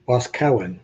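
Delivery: Boscawen as BOSK-win, said the local way; local pronunciation. Shown as a demonstration. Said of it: "the way people say it".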